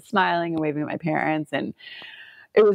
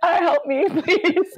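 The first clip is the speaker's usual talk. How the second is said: mock plea for help; 12 semitones higher, much slower than usual. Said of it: "I'm like".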